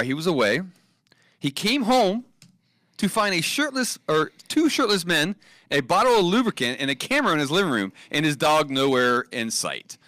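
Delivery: measured news-story reading; headline read-out. Real, not acted. Co-host presenting a headline to Ben, measured news read.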